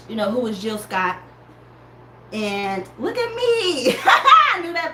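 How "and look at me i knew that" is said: laughing. Real, not acted. Laughing at herself.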